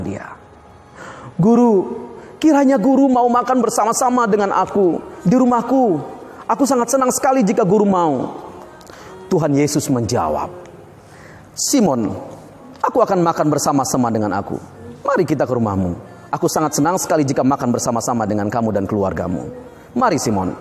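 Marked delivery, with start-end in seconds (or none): 1.3-8.4 lightly raised, eager invitation; a host gladly inviting his teacher; eager host Simon. Acted. Simon invites Jesus to dinner. 11.6-20.5 lower, calm and kind reply; gentle Jesus. Acted. Jesus answers Simon kindly.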